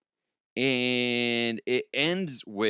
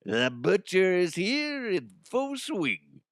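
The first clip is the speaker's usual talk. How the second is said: hiccups; 6 semitones higher, slower than usual. Real, not acted. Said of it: "without hiccuping".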